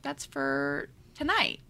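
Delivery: lightly voiced smug hero; teasing hero. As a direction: hold her off with a low, slow tease. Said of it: "he was like".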